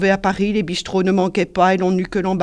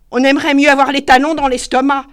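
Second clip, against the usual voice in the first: lugubrious; 8 semitones higher, 9 dB louder than usual. A narrator's reading. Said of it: "d'une façon lugubre".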